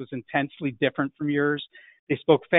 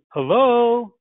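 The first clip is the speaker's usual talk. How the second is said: higher, louder voice of the person answering; prospect's hello; 7 semitones higher, 5 dB louder than usual. Shown as a demonstration. Homeowner answering a sales call, a high loud hello. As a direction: answer the phone as a stranger would, high and loud. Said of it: "They say".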